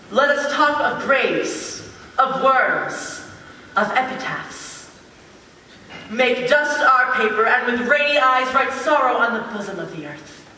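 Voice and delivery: measured, solemn dramatic recitation; verse read aloud. Acted. Playwright trying out his brother's verse, recited solemnly. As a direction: let each grave image land, with pauses.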